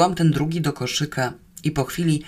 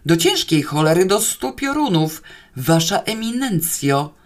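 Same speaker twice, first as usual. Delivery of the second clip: acted irate outburst; exasperated cursing; 3 semitones higher, 3 dB louder than usual. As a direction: curse and call out in exasperation. Guard cursing at silent prisoner. (zirytowane przekleństwa i wołanie)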